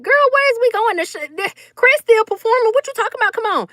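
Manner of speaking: why leave while he's still on; incredulous protest. Retold or imitated. Protesting to Faye during show.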